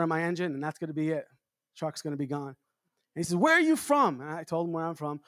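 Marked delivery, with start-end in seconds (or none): 3.4-4.2 retold yell. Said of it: "and he yells at me".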